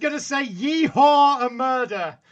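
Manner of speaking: exasperated. Real, not acted. Exasperated outburst.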